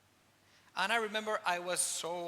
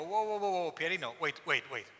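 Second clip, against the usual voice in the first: alarmed protest; 4 dB louder than usual. Retold or imitated. Startled protest to the priest's praise.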